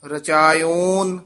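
"ਰਚਾਇਓਨ" slowly with a long open o; open-mouthed vowel. Shown as a demonstration. Teacher showing the open oora, "ਰਚਾਇਓਨ" with long o. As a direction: stretch the final o of "ਰਚਾਇਓਨ". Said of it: "ਊੜਾ ਖੁੱਲੇ ਮੂੰਹ ਵਾਲਾ ਹੈ".

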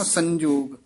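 ਸੰਜੋਗ with a clear nasal n from the tippi. Shown as a demonstration. Teacher corrects ਸੰਜੋਗ with the tippi sound. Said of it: "ਸੰਜੋਗ ਨਹੀਂ ਕਹਿਣਾ".

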